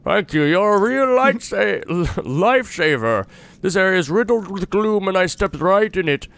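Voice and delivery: a touch of a friendly traveler voice; a hint of a relieved wanderer thanking his rescuer; lightly voiced traveler. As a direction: read the stranger's lines as a grateful, chatty traveler. Voicing NPC dialogue while playing.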